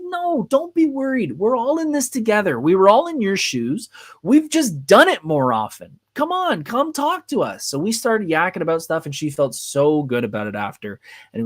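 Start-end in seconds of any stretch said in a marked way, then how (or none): 0.0-7.6 acted reassurance. Retold reassurance of a worried newcomer.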